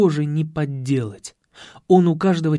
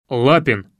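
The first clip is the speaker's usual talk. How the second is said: loud call across the gym; 2 semitones lower, 6 dB louder than usual. A narrator's reading. Coach calls his student across the gym, loud. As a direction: summon the lad with a bark. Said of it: "крикнул Ершов".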